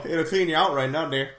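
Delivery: lightly put-on Wisconsin accent. Co-host selling the eel cure, light mock Wisconsin accent.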